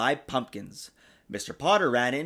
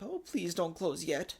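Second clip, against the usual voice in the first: pleading; 4 semitones higher, 7 dB quieter than usual. A narrator's reading. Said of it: "thought the littlest pumpkin".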